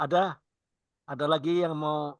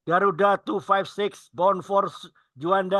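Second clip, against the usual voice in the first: flight attendant; 4 semitones higher, slower than usual. Pretend. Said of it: "Ini pramugari beda di suaranya ini".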